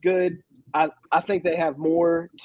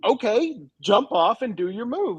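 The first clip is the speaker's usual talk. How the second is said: higher-pitched impatient urging; exasperated; 4 semitones higher than usual. Acted. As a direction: urge a stalling wrestler on, fed up. Mock-coaching a stalling wrestler.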